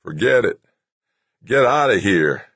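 lightly acted gasping urgency. A narrator's reading. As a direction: push words out as if short of air.

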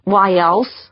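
mumbling through a mouthful of sandwich; mouth full. Acted. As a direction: talk around a big bite of food. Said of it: "Holly mumbled, her mouth full of sandwich".

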